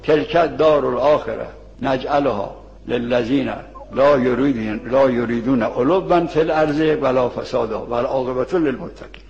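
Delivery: Quran recitation. Acted. Recites Quran verse in sermon.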